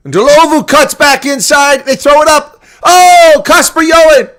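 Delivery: play-by-play peaking on the catch; excited call. Real, not acted. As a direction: stretch it out as the move opens up. Attack after the hooter.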